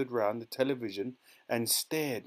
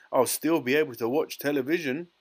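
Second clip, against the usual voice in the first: put-on loud, raised little boy's voice; tiny squeak; 4 semitones higher, 7 dB louder than usual. A narrator's reading. Shrunken boy insists on his television, squeaking. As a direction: squeak it stubbornly. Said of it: "squeaked the tiny voice".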